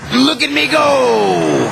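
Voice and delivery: showing off. A narrator's reading. Diesel showing off.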